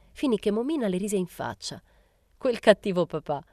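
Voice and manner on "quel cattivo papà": louder, lightly theatrical exclamation; exclaimed. A narrator's reading. Momina teasing Rosetta's mother about papà, exclaimed. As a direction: exclaim it in mock reproach. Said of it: "esclamò".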